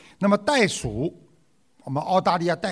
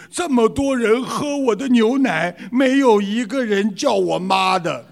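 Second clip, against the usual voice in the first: mock complaint, pitched up; grumbling cow; 4 semitones higher than usual. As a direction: play an aggrieved dairy cow. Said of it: "奶牛在边上发牢骚了".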